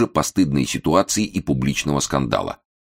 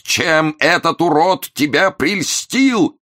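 loud wail; 13 semitones higher, 4 dB louder, much slower than usual. A narrator's reading. Continues shouting for wife.

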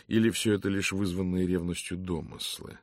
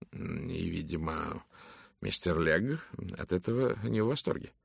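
lightly voiced prim secretary, a bit higher; a gossipy housekeeper confiding; brisk secretary voice; 5 semitones higher, 4 dB louder than usual. Narrator voices Miss Brewis. (голос чопорной секретарши)

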